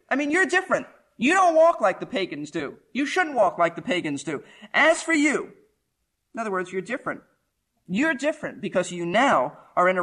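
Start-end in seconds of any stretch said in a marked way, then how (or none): 4.7-5.5 AS FOR YOU, high and punched; emphatic. Shown as a demonstration. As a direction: hit "As for you" hard, up high. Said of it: "this is what would be very emphatic".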